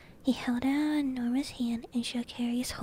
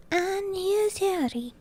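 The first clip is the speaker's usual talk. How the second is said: higher, louder, drawn-out giant voice; big raised storybook giant; hearty giant greeting; 8 semitones higher, 5 dB louder, slower than usual. Acted. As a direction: announce the boy with a big, slow flourish.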